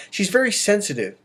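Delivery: usual speaking voice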